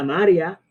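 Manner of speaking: MARÍA said as MA-ria, stress on MA; mispronounced María, stressed up front; missing hiatus. Shown as a demonstration. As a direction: say María with the ending glided into one syllable. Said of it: "si no marcamos el acento".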